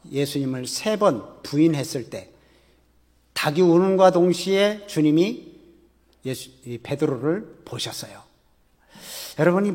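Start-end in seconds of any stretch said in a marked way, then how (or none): none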